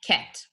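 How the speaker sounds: word said alone and clear; syllable demo. Shown as a demonstration. Teacher modelling one syllable clearly. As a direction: say it slowly for the class. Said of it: "if I look at the word".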